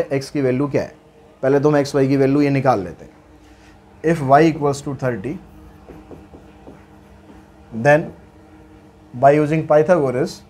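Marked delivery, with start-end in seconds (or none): 4.0-8.1 very slow, word by word, for students to copy; dictating the question to students, slow and even; slow dictation read. Shown as a demonstration. Dictates working slowly. 9.1-10.4 slow dictation. Shown as a demonstration. Dictates working slowly.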